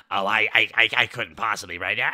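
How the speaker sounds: a hint of a flustered, coy villain; coy refusal. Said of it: "the Nicky Town scene".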